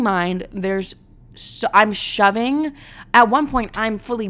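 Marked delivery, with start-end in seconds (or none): none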